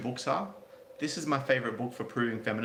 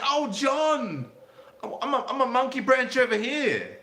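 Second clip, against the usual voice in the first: put-on high, loud, breathy swooning girl voice; mock girly swoon; 13 semitones higher, 6 dB louder, slower than usual. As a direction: squeal it like a lovestruck girl. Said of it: "and she's like".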